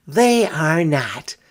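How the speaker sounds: slow, loud insistent denial; indignant girl. A narrator's reading. Sister hotly denies dogs are better. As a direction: contradict him hotly. Children quarrel about pets.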